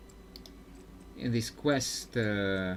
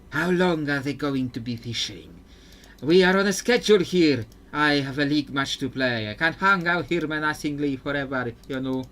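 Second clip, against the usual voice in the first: impatient villain in a mock Hispanic accent; 4 dB louder than usual. Viego waiting on the fishermen, mock Hispanic accent. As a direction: complain about the schedule in a put-on Hispanic accent. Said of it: "how Diego's accent is sounding to me".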